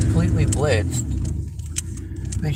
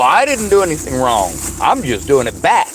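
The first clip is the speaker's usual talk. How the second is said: passive aggressive retort. Retold or imitated. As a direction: own voice, flat mock innocence. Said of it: "And I go".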